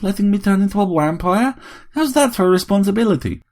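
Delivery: put-on accented wifely tirade climbing to a high pitch; ranting robot wife. A narrator's reading. Robot wife rails against scientists, indignant.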